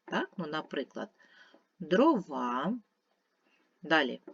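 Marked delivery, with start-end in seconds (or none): 1.8-2.8 "дрова" said slowly, syllables drawn out as an example; teacher's drawn-out example word "дрова"; stress shown by stretching. Shown as a demonstration. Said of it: "у яких наголошений перший склад".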